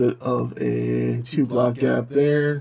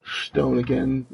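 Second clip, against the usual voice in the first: distorted robot demon voice filter. Real, not acted. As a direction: talk through a robot demon voice effect. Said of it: "There's the demon voice for the next ten minutes".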